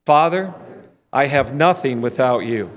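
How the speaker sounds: prayer said in unison; praying together. Shown as a demonstration. Preacher praying in unison with the church, reverent. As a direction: say it along with the congregation. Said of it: "Why don't you say that with me?".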